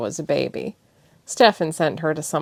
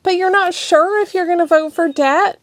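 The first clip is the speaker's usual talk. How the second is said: high, loud, wounded question; disbelieving; high hurt challenge; 13 semitones higher, 8 dB louder than usual. Acted. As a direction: press him, near tears. Thessia challenging.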